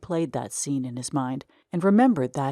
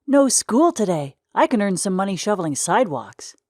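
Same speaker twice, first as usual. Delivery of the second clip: put-on excited boy; 4 semitones higher, 4 dB louder than usual. Excited boy plans his day.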